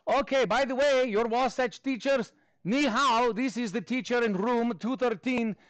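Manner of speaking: animated put-on Russian accent. Teacher asking students to rate handwriting, mock Russian accent. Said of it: "do this in a Russian accent".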